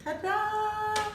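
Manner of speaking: high, bright fanfare ta-da. Real, not acted. Presenting their new show to viewers, excited fanfare. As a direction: announce it like a reveal.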